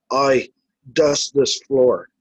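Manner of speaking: slow, lightly imitated Irish order; mild mock Irish command; Irish-accented order. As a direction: give a measured order with a hint of Irish. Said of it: "as in an Irish accent, as if he's giving me an order".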